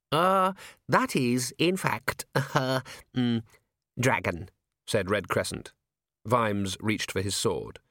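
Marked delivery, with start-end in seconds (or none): 0.1-4.5 nervous, halting stammer; panicky hesitation. A narrator's reading. Little herald panics on hearing the voice, flustered. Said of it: "A panicky look crossed the face".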